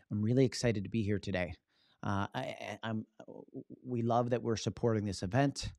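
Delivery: grip the podium and stammer through it; nervous, white-knuckled. Shown as a demonstration. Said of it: "white knuckle going".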